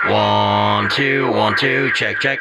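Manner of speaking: loud, clipped counting into the mic; mic check. Real, not acted. Testing the fixed Jackson mic with a loud count. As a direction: call the numbers out to test the level. Testing at full volume setting.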